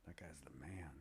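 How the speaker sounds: hushed, impressed whisper; awed whisper. Retold or imitated. Recalling first spotting the fighter, an awed whisper. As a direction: breathe it like a secret admiration. Retold awed thought about Fabio.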